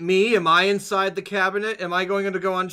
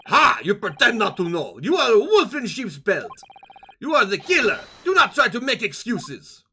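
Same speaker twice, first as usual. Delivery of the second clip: bad Russian accent; 3 semitones higher than usual. Sailor calls captive the killer, hammed-up Russian accent. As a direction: accuse triumphantly in mock Russian. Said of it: "pretend bad Russian accent".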